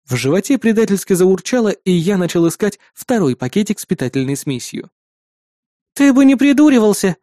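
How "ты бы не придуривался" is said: put-on higher, sulky girl's scold; ruffled, huffy. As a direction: pout and tell him off. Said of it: "нахохлилась Маруся". (надутая девичья отповедь)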